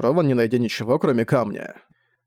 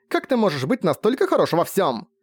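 higher, accusing cry; anguished shout; 6 semitones higher than usual. A narrator's reading. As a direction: hurl the question at him. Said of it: "выкрикнула она".

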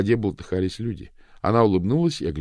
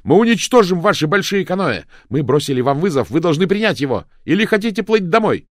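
loud, higher taunting challenge; defiant shouting; 10 semitones higher, 9 dB louder than usual. A narrator's reading. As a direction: hurl the challenge at the enemy. Pilu keeps shouting challenge.

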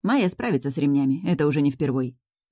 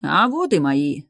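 slow, louder booming welcome; booming bass; 4 dB louder, slower than usual. Acted. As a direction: boom it out like a hearty dad. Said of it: "басит".

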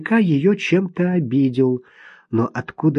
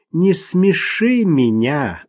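disbelieving; 3 semitones higher, slower than usual. Acted. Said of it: "давая понять, что не слишком ему верит".

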